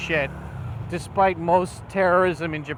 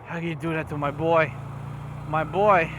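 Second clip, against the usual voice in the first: angry plea. Retold or imitated. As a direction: demand an answer, hurt and furious. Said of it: "makes me so angry".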